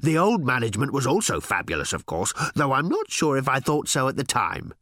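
swooning robot. A narrator's reading. Little robot dreamily telling Ford the news. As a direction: melt over every word.

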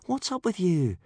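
high, coaxing voice; soothing. A narrator's reading. Hiccup asks his frightened dragon what is wrong, soothing. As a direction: coax a frightened pet with a lilt. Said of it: "said Hiccup soothingly".

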